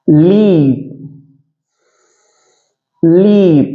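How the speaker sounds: long s, gap, then 'லீப்'; separate S first. Shown as a demonstration. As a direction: hiss the s apart from a drawn-out 'லீப்'. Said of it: "தனியாவே வாசிச்சு பழகுங்க". ('ஸ்ஸ்' தனியாக, பிறகு 'லீப்')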